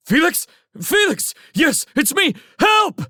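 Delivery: high, loud frantic yelling; panicked. A narrator's reading. Railsmith answers Felix on the radio, screaming in panic. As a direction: cry out desperately for rescue.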